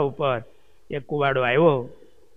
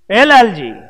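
second call, "એ લાલજી" louder and higher, falling at the end; 5 semitones higher, 7 dB louder than usual. Retold or imitated. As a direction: call out "લાલજી" to rouse him. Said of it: "મહારાજે લાલજી ભગતને સાદ કર્યો". (મોટેથી સાદ, "એ લાલજી")

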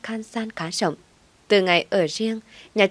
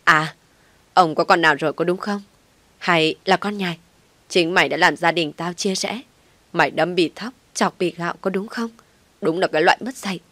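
screaming. Acted. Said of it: "Bà Tâm vẫn gào lên".

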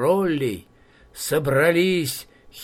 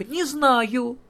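partridge voice; 10 semitones higher than usual. Acted.

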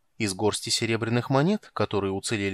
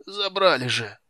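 high nervous clerk; 6 semitones higher, 3 dB louder than usual. A narrator's reading. Clerk in pain.

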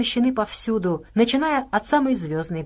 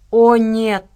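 loud, drawn-out groan of dismay; 2 semitones higher, 7 dB louder than usual. A narrator's reading. Jeffrey reacts to the lights coming on, groaning. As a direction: moan it out in dismay. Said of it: "простонал Джеффри".

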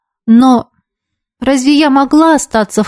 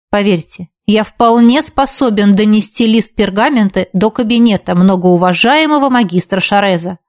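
sarcastic. Acted. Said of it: "В голосе Светлого явно чувствовался сарказм".

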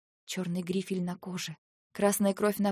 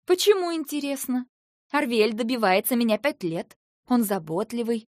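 higher and louder, indignant; angry defiance; 4 semitones higher, 7 dB louder than usual. A narrator's reading. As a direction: defend him angrily. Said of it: "Я обернулась гневно". (гневный вызов)

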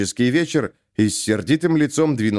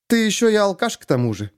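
angry question; 8 semitones higher than usual. A narrator's reading. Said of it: "сердито спросила она".

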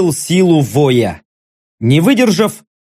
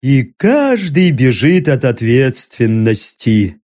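sad sigh; 5 semitones lower, slower than usual. Acted. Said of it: "с грустью вздохнул Армано".

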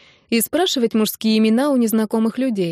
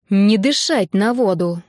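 stern warning. Acted. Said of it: "Грозно посмотрела".

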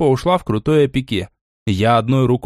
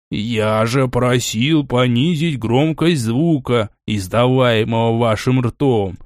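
irritated dragon head; slower than usual. Acted.

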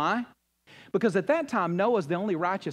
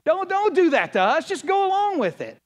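much higher, louder mock crowd yelling; crowd yelling you back; 10 semitones higher, 5 dB louder than usual. Crowd scolding the one who turns back, a loud mock yell. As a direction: shout it like the whole crowd pushing you back in line. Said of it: "They go".

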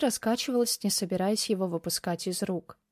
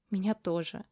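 tearful whisper; 4 dB quieter than usual. Acted. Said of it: "прошептала сквозь слёзы".

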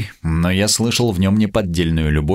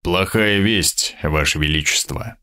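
sepulchral voice; 2 semitones lower than usual. Acted. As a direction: deliver it like a funeral bell. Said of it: "сказал он гробовым голосом". (гробовым голосом)

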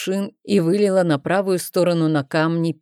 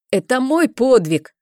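insistent claim; 6 semitones higher, 4 dB louder than usual. A narrator's reading. Haki claims the deed.

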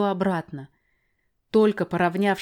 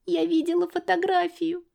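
put-on high child's voice, tearful; a little girl insisting through tears; sobbing child; 12 semitones higher than usual. Girl sobbing to the narrator, high. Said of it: "всхлипнула Лиля".

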